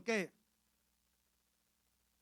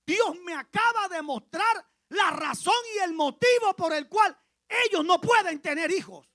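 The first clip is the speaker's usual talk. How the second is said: excited news; 7 semitones higher, 9 dB louder than usual. Retold or imitated.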